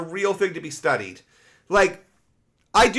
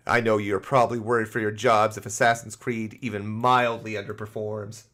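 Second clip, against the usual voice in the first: mock sympathetic letter; 6 semitones lower than usual. Reading a mocking letter aloud.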